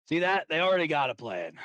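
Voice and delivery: a touch of in-character eagerness to be heard; Rexus. Acted. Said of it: "Rexus would step forward".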